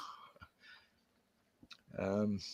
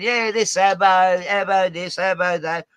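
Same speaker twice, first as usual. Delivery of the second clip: slow, louder mocking of a repeated slur; mocking quote; 4 semitones higher, 4 dB louder than usual. Mocking Puck's repeated slur to a friend, slow and scornful. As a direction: drag out each abo with scorn. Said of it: "that's what he says over and over".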